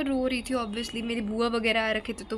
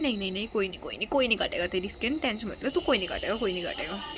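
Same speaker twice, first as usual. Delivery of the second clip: lower-pitched soothing dad; low, hushing reassurance; imitated reassuring dad; 4 semitones lower, faster than usual. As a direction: lightly voice a father calming his child. Acts dad reassuring her.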